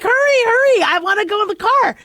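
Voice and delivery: mock impatient child; impatient kids. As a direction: mimic a pushy little kid urging hurry. Kids rushing her, mimicked.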